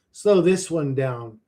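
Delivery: drawn-out slow delivery; slow this one down. Shown as a demonstration. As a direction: stretch each word slowly.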